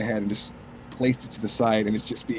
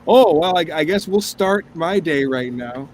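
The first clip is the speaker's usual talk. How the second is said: exasperated exclaim; 6 semitones higher, 6 dB louder than usual. Retold or imitated. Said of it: "It's like".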